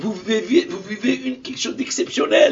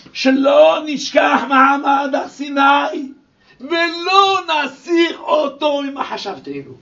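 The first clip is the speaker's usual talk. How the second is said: slow declaimed shout; 2 semitones higher, 5 dB louder, slower than usual. Acted. Declaims Ramban's verse.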